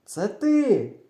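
high, loud accusing comeback; shouted retort. A narrator's reading. Friend shouting back at the boy, retort. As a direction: throw the blame straight back. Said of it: "кричить він".

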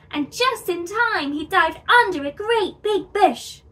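loud, high-pitched dramatic telling; excited chase narration. A narrator's reading. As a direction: burst out and race through the escape. Narrated sudden fright and chase.

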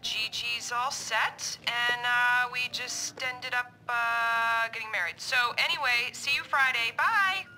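voicemail played back; answering machine message. Real, not acted. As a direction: message heard through the machine speaker. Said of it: "I push play on the machine".

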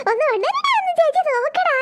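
put-on high, pleading baby talk; coaxing baby. Sister urging sleeping baby brother, high pleading coo. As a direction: coax the baby awake with a rising lilt.

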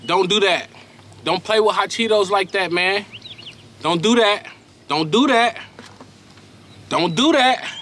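warning that climbs in pitch with each repeat; worked-up, repeated telling-off; mad. Real, not acted. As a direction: scold them, insisting harder every time. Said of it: "That just made me mad".

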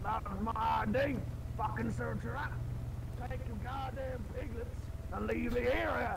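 yelling at police to leave; shouting. Acted. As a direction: yell them off the scene. Shouting at cops in character.

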